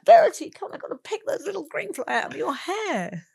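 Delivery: laughing through a high, loud call to her daughter. Retold or imitated. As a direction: giggle as you pick fly from her hair. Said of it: "I said".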